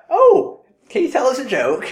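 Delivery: high-pitched mock eager fan; squeaky, wheedling request; eager joke requester. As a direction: imitate a gushing stranger, voice way up. Imitates people asking comedians for jokes.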